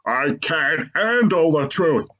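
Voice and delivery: a light hint of a dramatic courtroom line; mock-dramatic line, slowed down; Jack Nicholson. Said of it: "pulls off a Jack Nicholson saying".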